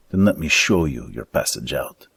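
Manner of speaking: put-on fat schemer with a thick Romanic accent. Fat man recruiting two thieves, thick Romanic accent. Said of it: "in his thick Romanic accent".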